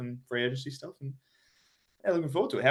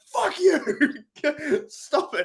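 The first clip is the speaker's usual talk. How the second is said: high-pitched mock yell, breaking into laughter; mock heckle; 4 dB louder, much slower than usual. Imagined protester at the parade, high mock-outraged heckle. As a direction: play at heckling from the crowd. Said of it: "stood in the crowd and be like".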